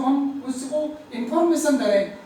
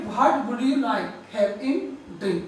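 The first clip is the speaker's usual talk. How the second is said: slow demo; 3 semitones lower, much slower than usual. Shown as a demonstration. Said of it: "हम simple बोलते कि".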